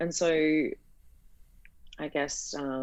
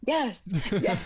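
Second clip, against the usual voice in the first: relieved yes; 5 semitones higher than usual. Retold or imitated. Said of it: "And I was like".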